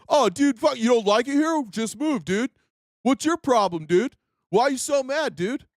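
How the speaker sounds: mock a dismissive bro, drawing up on "dude". Imagined critic tells him to just move, mockingly. Mocks his critics in rant.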